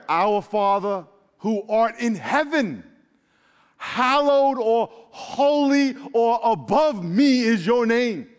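reverent prayer. Acted. Preacher leading the church in the Lord's Prayer, reverent and slow. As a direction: pray it out slowly with reverence. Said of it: "Lord's Prayer".

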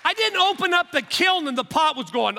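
loud, high-energy sermon delivery with punched key words; impassioned preaching. Real, not acted. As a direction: preach it with rising fervour. Preaching at full force.

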